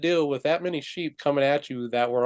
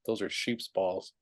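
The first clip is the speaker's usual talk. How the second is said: low, soft, slow mock whisper; retold whisper; 5 semitones lower, 9 dB quieter, slower than usual. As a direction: imitate a secretive word in her ear, slowly. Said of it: "the guy whispers in her ear".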